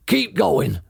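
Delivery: mild farmer shout over machines. Acted. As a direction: call out to the other farmers. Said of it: "shouted to Bunce and Bean".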